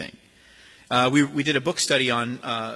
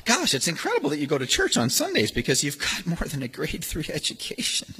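sneer; 3 dB quieter than usual. Retold or imitated. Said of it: "they say".

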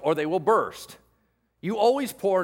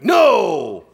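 sudden booming NO; gotcha shout; 12 dB louder than usual. Acted. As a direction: burst out loud to catch them out. God springs the test on Peter.

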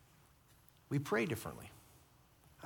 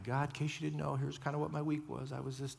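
offhand report to God; 5 dB quieter than usual. Shown as a demonstration. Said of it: "No, no, no".

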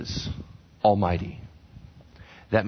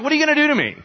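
high, bold mock challenge; defiant taunt; 11 semitones higher, 3 dB louder, much faster than usual. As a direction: toss it at the jailers, unafraid. Paul and Silas taunting jailers.

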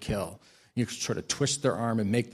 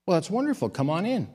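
Italian woman's welcome; 7 semitones higher than usual. Retold or imitated. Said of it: "And she said".

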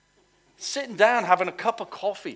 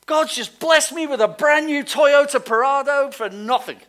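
higher and louder, gushing with news; excited bragging friend; 8 semitones higher, 6 dB louder than usual. Retold or imitated. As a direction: brag about the new car, bursting with glee. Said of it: "somebody rings you up and says".

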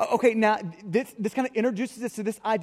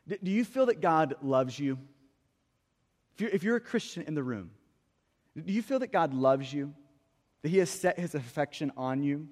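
tender, searching; 5 semitones lower, 3 dB quieter than usual. Real, not acted. Preacher asks believers if they feel God's love, tender. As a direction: ask it gently, leaving room to reflect. Gently asking the congregation a personal question.

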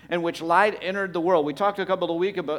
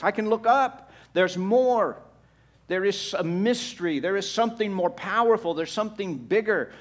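higher and louder, lifting up with sudden hope; excited relief; 4 semitones higher, 4 dB louder than usual. Retold or imitated. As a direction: voice the people discovering there is more, higher and louder. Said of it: "They're like".

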